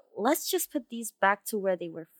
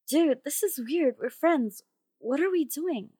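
higher, incredulous objection; bewildered protest; 5 semitones higher, 3 dB louder than usual. Acted. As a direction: break off, baffled, to a friend. Breaks off, protests to friend.

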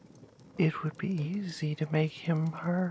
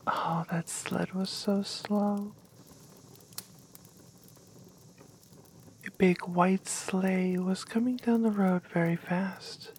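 whispered story. Acted.

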